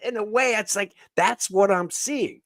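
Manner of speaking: high-pitched, laughing through the words; amused, voice lifted by laughter. Real, not acted. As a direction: talk through a real laugh. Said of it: "I mean, I'm laughing".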